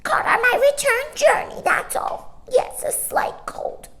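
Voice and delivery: high, loud huffy bird denial; indignant starling. A narrator's reading. Starling hiding his tears from Mary Poppins, huffy and high. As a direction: deny it with wounded dignity. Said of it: "drew himself up".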